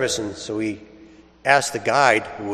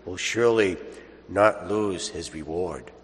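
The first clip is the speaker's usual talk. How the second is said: Gospel proclamation. Acted. Priest reads the Gospel aloud to the congregation, solemn and measured.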